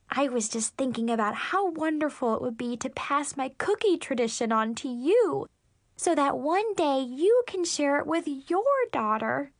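lightly voiced gushing mother; a touch of sappy, dreamy mother; sappy mom. Mom passing her cookie tradition to daughter, lightly sappy.

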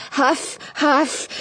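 breathless huffing; winded puffing on the stairs; climbing stairs. A narrator's reading. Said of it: "I push myself up the last few stairs".

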